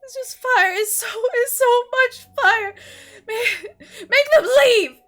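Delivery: very high, loud, sobbing shrieks; terrified child begging the fire to stop; screaming in pain. Acted. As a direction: shriek it out through tears. Tilly screaming in burning pain.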